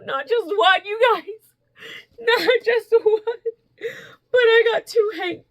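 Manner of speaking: high, loud, thrilled announcement; excited gushing. Real, not acted. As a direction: build up the big reveal, loud and high. Gushing over a second gift.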